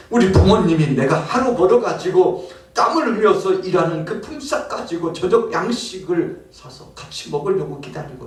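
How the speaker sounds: anguished worker's cry over his hungry family; lament. Acted. (굶는 가족 걱정에 울부짖는 일꾼)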